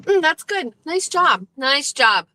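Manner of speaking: high, sing-song pet praise; praising a pet. Real, not acted. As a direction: coo at a good dog.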